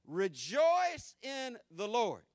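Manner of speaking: slow, drawn-out shout on rejoice; preached shout. Acted. Pastor crying the command out to the congregation, slow shout. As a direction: call it out to the whole church.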